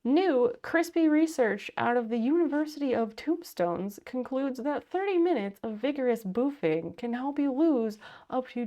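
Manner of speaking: mock news anchor read; newscaster voice. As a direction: read it like a weekend update anchor. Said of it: "My newscaster voice is really out of practice".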